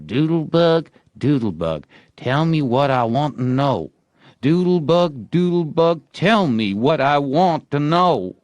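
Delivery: high, loud sing-song summoning; boy calling a spell. A narrator's reading. Tom calls into the sand to the doodlebug, high chant. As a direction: chant it like a charm to the bug. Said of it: "and called".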